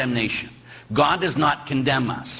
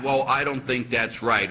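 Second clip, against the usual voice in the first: mock objection; 3 semitones lower than usual. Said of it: "We don't decide".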